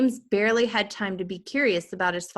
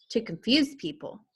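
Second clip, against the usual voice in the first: put-on child voice; 3 semitones higher than usual. Child character voiced in story.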